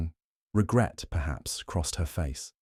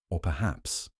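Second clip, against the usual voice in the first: a hushed, softer "Or perhaps"; softly; 5 dB quieter than usual. Acted. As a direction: ease the volume down, almost confiding. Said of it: "Poirot said softly".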